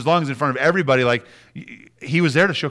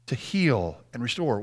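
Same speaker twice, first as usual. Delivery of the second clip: much softer repeat, heal and restore almost breathed; soft echo; 3 semitones lower, 7 dB quieter than usual. Real, not acted. Preacher repeating the point to the congregation, much softer and gentler. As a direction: echo it back softly, like a quiet amen.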